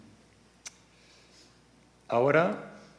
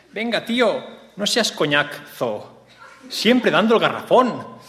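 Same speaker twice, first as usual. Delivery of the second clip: pitched way up, teasing and slow; high mock girlfriend voice; 8 semitones higher, slower than usual. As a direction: play the annoyed girlfriend, high and drawn out. Acted quote of the woman.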